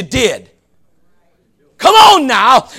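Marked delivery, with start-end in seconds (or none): 1.8-2.7 shouted urging. Real, not acted. Preacher urging congregation.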